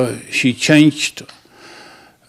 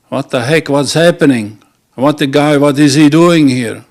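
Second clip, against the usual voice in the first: half-hearted husband's yell, somewhat louder; mock screaming; 4 dB louder than usual. Husband catches wife with coal man, mock yelling. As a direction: imitate an outraged husband, only mildly raised. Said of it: "he started screaming".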